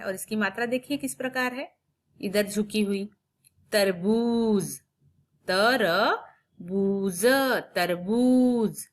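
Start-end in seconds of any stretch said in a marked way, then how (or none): 3.7-8.9 तरबूज with the ऊ drawn out slowly; slow, long ऊ. Shown as a demonstration. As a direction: stretch the ऊ in तरबूज. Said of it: "लंबा होता है". (तरबूज में ऊ लंबा खींचकर)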